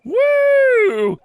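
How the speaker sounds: high loud whoop of delight; thrilled shout; excited whoop. Acted. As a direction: cheer her on. Excited cheer at performance.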